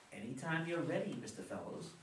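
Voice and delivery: imitating a bored boss, dropping away on the name; mock-patient, understated sarcasm; bored, sarcastic. Father mimicking Mister Armstrong at the meeting, bored and sarcastic. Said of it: "said in his bored, sarcastic voice".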